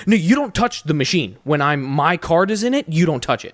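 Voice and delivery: angry customer telling the cashier off; mock stern scolding. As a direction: snap at him to keep his hands off.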